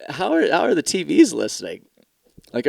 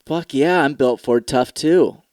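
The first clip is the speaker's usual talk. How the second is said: mock ad guy; 4 dB louder, slower than usual. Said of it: "watched a T V commercial and went".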